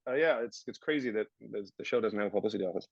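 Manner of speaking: lightly sarcastic aside; deadpan mock surprise at the show; dry, ironic tone. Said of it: "I'm laughing 'cause I'm like".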